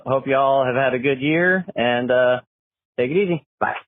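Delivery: phone message playback; recorded caller on the line; voicemail. Real, not acted. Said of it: "let's see what he has to say".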